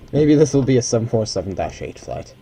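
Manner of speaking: real voice failing, needing a cough; voice giving out. Real, not acted. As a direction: voice fading and dropping away. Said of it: "as my voice just fucks off".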